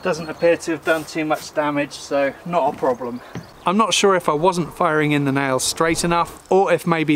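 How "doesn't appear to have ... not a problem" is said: distant, thin backup-mic sound; tape dropout. Real, not acted. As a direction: audio from a far camera mic. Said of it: "Apologies for the loss of audio here".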